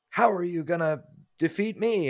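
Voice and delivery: a hint of a pompous villain, imitated; Goblin King. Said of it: "the line from the Goblin King".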